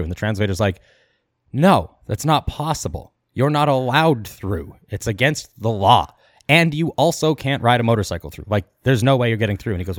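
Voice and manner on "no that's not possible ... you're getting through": mock-official, stretched-out denial; retold firm refusal. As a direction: spell out the refusal word by word, imitating an official. Translator flatly refusing, retold.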